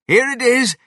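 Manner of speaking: very high, loud and eager; triumphant announcement. A narrator's reading. George's father back from the car, excited announcement. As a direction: call it out in triumph.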